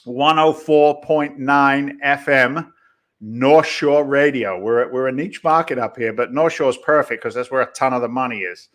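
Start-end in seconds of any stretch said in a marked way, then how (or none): 0.0-4.6 slow, drawn-out proud husband announcement; boasting husband. Pretend. Guest plays host's husband telling his Boston buddies, slow mock boast. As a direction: stretch it out, playing a husband showing off. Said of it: "your husband tells all his Boston buddies".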